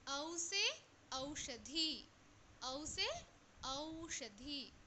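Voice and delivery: very slow, drawn-out letter chant; slow classroom recitation; slow drill. Shown as a demonstration. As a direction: stretch every syllable for the class. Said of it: "slow drill repetition".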